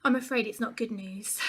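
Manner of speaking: grave doctor giving bad news; mildly solemn, measured retelling; really serious. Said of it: "really, really serious, and was like".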